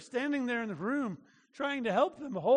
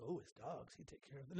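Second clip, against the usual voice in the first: mock misreading; 8 semitones lower, 16 dB quieter than usual.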